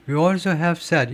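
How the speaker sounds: We also have said read slowly and carefully; slow careful example read; slow demo reading. Shown as a demonstration. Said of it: "이렇게 읽어야 돼요".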